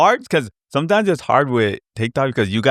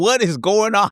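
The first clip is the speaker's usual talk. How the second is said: much higher, baffled what; mock disbelief; 11 semitones higher than usual. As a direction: play up the confusion. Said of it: "I'm like".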